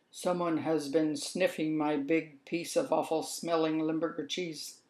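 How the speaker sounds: a hint of a gruff father mouse, mildly indignant; Papa Mouse in a mildly put-on voice; lightly voiced Papa Mouse. Papa Mouse finds someone sat in his chair, lightly voiced.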